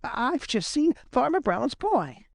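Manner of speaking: breathless and high-pitched; panting. Acted. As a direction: blurt it between breaths. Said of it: "he panted".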